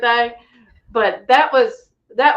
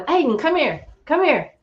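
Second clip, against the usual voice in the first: calling out; 7 semitones higher than usual. Retold or imitated. Calling the boy over.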